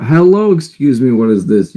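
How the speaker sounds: high, bright hello to a viewer; surprised greeting. Real, not acted. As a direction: call out hello to a newcomer. Reacting to a new live viewer.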